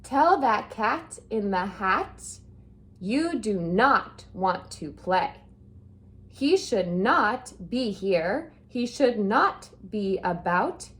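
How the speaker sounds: a fish's mild scolding, pitch climbing at the end. Acted. Fish scolding the kids not to let the cat in, mild scolding. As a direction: fuss at the kids like a worried pet fish. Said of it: "the fish is scolding the kids".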